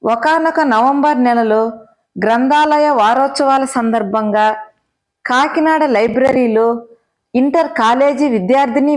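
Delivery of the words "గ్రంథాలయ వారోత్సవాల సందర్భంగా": usual speaking voice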